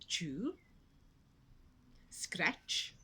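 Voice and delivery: whispering. A narrator's reading. Bored animals, narrator hushed.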